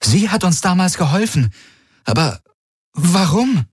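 high, wondering questions; astonished. Acted. Kirai wonders aloud to Galen why Voi helped, high and astonished. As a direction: puzzle over it in disbelief. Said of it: "blinzelte erstaunt".

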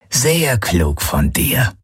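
slow, mildly rumbling creature voice; a hint of a smug beast grumbling; slow grumble. A narrator's reading. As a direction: drag the words out like a smug brute. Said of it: "brummte Knochenfresse".

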